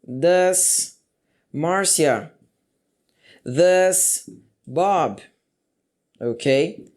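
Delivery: very slow, drawn-out question openers; slow drill. Shown as a demonstration. Teacher drilling question starters, very slow. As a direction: stretch each Does for the class. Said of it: "Então, ficaria".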